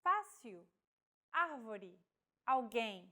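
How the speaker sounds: Fácil, árvore, alguém with the accented vowel stressed; Portuguese words with the stress on the acute. Shown as a demonstration. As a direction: lean on each accented vowel. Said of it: "acute accent is used to indicate a stressed vowel".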